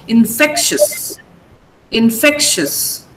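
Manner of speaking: infectious drawn out slowly, weight on FECT; stress on FECT. Shown as a demonstration.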